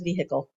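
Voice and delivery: "vehicle" as VEE-hick-ul, H sounded; dad's vehicle pronunciation. Retold or imitated. Blaming dad for the habit, "vehicle" with an audible H. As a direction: say "vehicle" with the H pronounced. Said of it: "That's the way he says".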